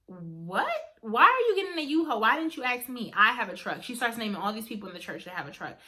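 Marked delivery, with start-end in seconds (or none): 0.1-3.8 high, surprised and louder; incredulous friend offering help; big sister's reaction. Retold or imitated. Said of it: "she was like".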